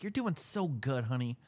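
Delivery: high, slow, hammed-up cheering; mock supportive wife. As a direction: coo encouragement like a doting wife. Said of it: "You're like".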